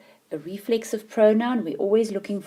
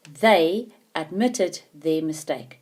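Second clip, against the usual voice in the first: slow test reading; 4 dB louder, slower than usual. Shown as a demonstration. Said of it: "if I cover it completely".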